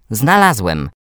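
put-on boy's cry of discovery; excited shout. A narrator's reading. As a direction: call out the find to everyone. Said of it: "krzyknął Filip tak niespodziewanie".

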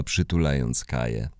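plain reading voice

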